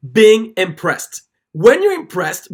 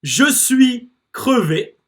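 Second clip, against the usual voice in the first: slow repeat; 3 semitones higher, slower than usual. Shown as a demonstration. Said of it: "Let's do it one more time".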